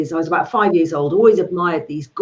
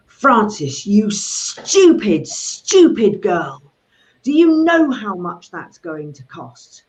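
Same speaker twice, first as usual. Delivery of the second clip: put-on slow, drawn-out "stupid, stupid girl", a touch raised; mum scolding; 2 semitones higher, much slower than usual. A mother telling off her young daughter in a mildly angry voice. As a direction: scold a little girl for breaking something.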